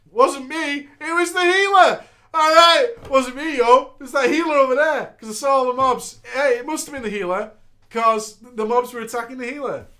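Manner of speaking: loud, high mock tank voice; voicing the tank. Tank blaming the healer, loud and high. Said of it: "The tank then said".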